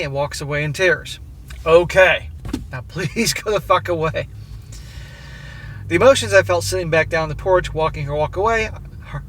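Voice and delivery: steady read-aloud voice for a written letter. A narrator's reading. Narrator reading the letter to his wife, measured and even.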